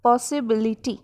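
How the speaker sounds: "पॉसिबिलिटी" rejoined with each syllable distinct; teacher putting the syllables of "पॉसिबिलिटी" back together; five-part pronunciation. Shown as a demonstration. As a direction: say "पॉसिबिलिटी" lightly segmented in five beats. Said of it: "five parts में pronounce किया".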